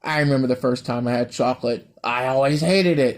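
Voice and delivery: lightly voiced cartoon character reminiscing; hammed-up cartoon voice with stretched words; bad cartoon impression. The speaker mimicking a cartoon character on chocolate, bad impression. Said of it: "I'm terrible at impressions".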